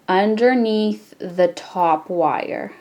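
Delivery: slow, drawn-out instruction. Shown as a demonstration. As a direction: stretch the words to follow each step. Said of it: "repeat this a little slower".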